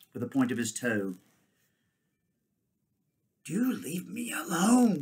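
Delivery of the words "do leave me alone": high, drawn-out peevish ape whine; muttering ape. A narrator's reading. Ape protesting at a kick, in a whining mutter. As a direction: whine it slowly in a high grumble. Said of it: "muttered Shift".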